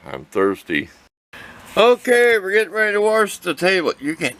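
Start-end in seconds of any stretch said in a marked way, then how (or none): 1.8-4.4 upbeat announcing. Real, not acted.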